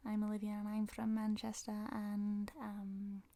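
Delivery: nasal, exaggerated Mancunian English; broad nasal Manchester demo; strong Manchester accent. Shown as a demonstration. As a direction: lay the old Manchester accent on thick, through the nose. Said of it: "avec un accent na-, nasal".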